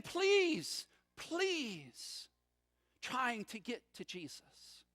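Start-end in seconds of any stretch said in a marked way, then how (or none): 0.0-2.3 yelling plea. Retold or imitated. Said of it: "desperate father shouting, jostling, yelling".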